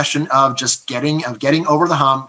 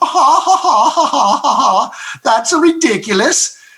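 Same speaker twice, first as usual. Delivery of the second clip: very high laughter in a put-on Swedish accent; 11 semitones higher, 4 dB louder than usual. Imagining Vikings hearing about elections: mock Viking laughter, Swedish accent. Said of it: "laughing in ancient Swedish accents going".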